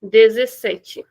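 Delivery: slow Brazilian dezessete; Brazilian Portuguese. Shown as a demonstration. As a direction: end on tchi, Brazilian way. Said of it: "In Brazilian, we'll say dezessete".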